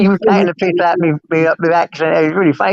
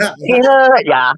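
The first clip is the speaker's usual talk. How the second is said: laughing mock threat; 3 semitones higher, slower than usual.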